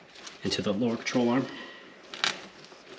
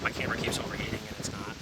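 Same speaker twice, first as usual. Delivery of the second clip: into a fan; 12 dB quieter, faster than usual. Real, not acted. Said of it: "Excuse the fan noise for the rest of this".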